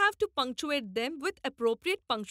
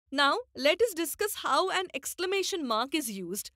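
ordinary talk, nothing marked

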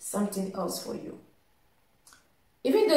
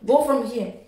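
shouting; 4 semitones higher than usual. Retold or imitated. Shopkeeper telling the driver to leave, raised mock shout. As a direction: replay the shopkeeper's rant, raised and pushy. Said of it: "he was really shouting very bad to me".

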